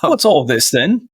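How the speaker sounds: slow mock-monotone with a rise at the end. Player imitating the Warforged sheriff's greeting, slow monotone. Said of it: "in a monotone voice".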